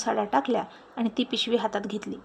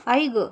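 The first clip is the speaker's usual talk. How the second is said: fake groan; 5 dB louder, much slower than usual. A narrator's reading. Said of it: "चंद्राच म्हणायची".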